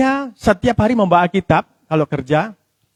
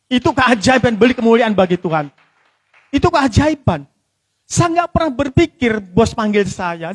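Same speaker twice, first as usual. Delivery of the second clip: higher-pitched, emphatic preaching; fervent testimony; 6 semitones higher than usual. Real, not acted. Preacher testifies to the congregation about a miracle, fervent. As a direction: press each phrase home in earnest wonder.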